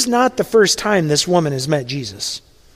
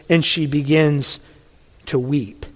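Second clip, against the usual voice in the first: hushed tender; 4 semitones lower than usual. Acted. Preacher dwelling on her tears, hushed tender. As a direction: let the words fall away gently.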